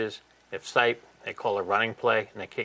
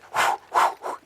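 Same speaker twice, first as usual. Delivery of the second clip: voiceless huffs of someone charging over; quick mock huffing, no voice; imitated menacing puffing. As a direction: imitate an angry charger's heavy breaths. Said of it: "All of a sudden, I hear this".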